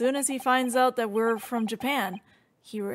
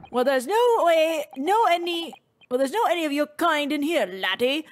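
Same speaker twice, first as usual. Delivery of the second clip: lightly put-on Scottish governor; hint of a gruff Scottish accent; attempted Scottish accent. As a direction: have a shaky go at Scottish. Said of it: "oh, he's Scottish!".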